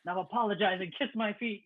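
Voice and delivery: lightly voiced African warlord accent; a hint of put-on African accent; imitated thick accent. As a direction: lord it over them in a mock accent. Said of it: "he basically has this thick accent".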